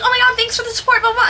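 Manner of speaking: high, laughing thank-you; laughing mock gush. Thanking followers at dawn, high laughing gush. Imitating self replying to comments.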